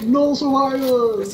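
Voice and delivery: battle cry. Pretend. Joins the mock battle cry.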